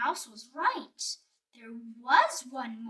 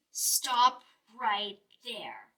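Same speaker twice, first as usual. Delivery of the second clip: slow, lightly voiced grumbling bear; 2 semitones lower, slower than usual. Bear stopping the mouse, slow grumbling. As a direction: halt the mouse with a slow growl. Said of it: "It grizzled and it grumbled".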